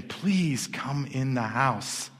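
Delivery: slow, drawn-out plea; gently plead, stretching the words out; mild begging. Acted. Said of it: "came out and begged him".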